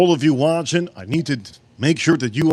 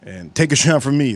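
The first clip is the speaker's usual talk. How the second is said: reading as a loving wife; slower than usual. Pretend. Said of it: "I did sound like I'm talking to somebody".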